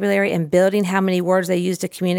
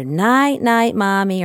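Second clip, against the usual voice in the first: sing-song night-night; 2 semitones higher, much slower than usual. Shown as a demonstration.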